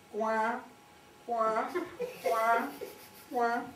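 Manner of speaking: «coin» cancané, montant à chaque fois; imitation de canard. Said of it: "pour faire le canard". (voix de canard)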